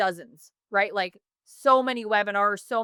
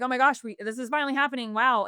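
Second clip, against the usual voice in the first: retold excitement; 4 semitones higher, faster than usual. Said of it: "we are so excited".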